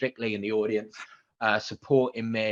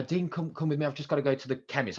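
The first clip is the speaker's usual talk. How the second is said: higher-pitched, coaxing retold request; feigned casual excuse; 4 semitones higher than usual. Presenter luring partner out with an excuse, coaxing. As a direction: coax them along with a made-up errand.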